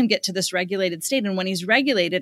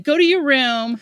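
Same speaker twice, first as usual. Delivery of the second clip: stern order; 5 semitones higher, 5 dB louder than usual. Retold or imitated. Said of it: "I'm like".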